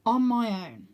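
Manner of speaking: breathy whisper of resolve; resolved whisper. A narrator's reading. Arthur steeling himself to fly alone, whispered. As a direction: whisper it to yourself.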